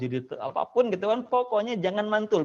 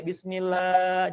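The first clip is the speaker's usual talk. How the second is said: "Bismillah" with last a stretched; overlong vowel; slower than usual. Shown as a demonstration. Teacher shows what to avoid, overlong "Bismillah". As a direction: drag out the "lah" of "Bismillah". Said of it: "jangan kepanjangan lagi ya".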